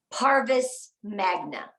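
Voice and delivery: Parvis Magna drawn out, each syllable clear; slow demo. Shown as a demonstration. Coach models Parvis Magna for the team, slow. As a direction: say Parvis Magna slowly so they can copy. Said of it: "Repeat after me".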